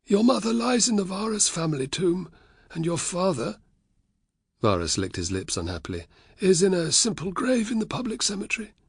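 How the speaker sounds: high, uneasy voice of a guilty uncle; reluctant Varus. A narrator's reading. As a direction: answer unwillingly, squirming.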